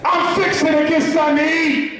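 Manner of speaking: loud, words rolled into one; rhythmic run-together. Shown as a demonstration. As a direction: let it flow like a single word. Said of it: "It was like one word".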